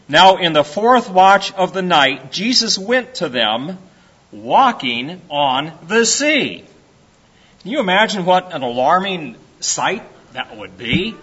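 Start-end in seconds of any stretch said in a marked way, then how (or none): 0.1-6.6 emphatic, measured Bible reading; scripture reading. Acted. Preacher reading Matthew to the congregation, scripture reading. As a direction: read it out to the congregation.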